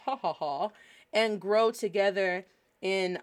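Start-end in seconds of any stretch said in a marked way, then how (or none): 0.0-0.7 playful laugh. Shown as a demonstration.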